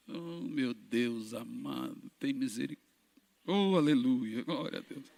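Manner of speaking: slow murmured prayer, half to himself; hushed prayer. Retold or imitated. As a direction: pray under your breath, slowly. Pregador reza baixinho fingindo. (reza sussurrada e lenta)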